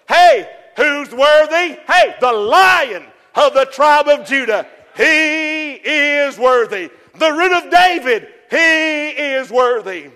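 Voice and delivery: slow, drawn-out declaration; preacher proclaiming slowly. Acted. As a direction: announce it like a herald.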